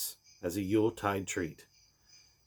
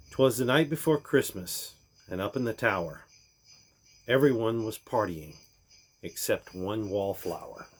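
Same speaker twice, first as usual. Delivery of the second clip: lively rhyming read-aloud; storybook poem reading. A narrator's reading.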